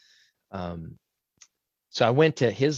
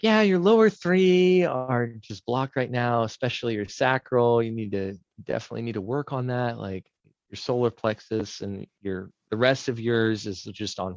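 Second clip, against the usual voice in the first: retold healer voice; 3 dB louder than usual. Healer reads her chakras.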